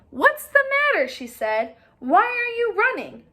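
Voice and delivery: very high, loud goose; a shrieky goose calling out. Acted. Goosey Lucy calls out from her nest, very high and loud.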